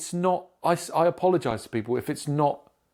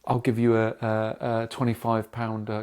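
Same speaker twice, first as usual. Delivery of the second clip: low-pitched imitation of an apologetic agent; rote apology; 4 semitones lower than usual. Curry's agent offering a disappointed customer compensation, rote apology. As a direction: reel off an apology in a lowered voice.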